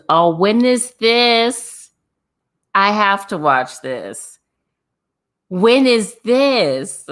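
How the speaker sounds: can't wait to know; thrilled to hear about the battle; excited. Real, not acted.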